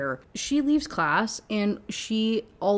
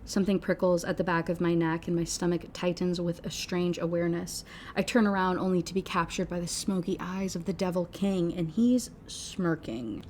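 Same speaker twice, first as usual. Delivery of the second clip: novel narration; 3 dB quieter than usual. A narrator's reading. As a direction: read the passage quietly and evenly. Reads novel passage aloud.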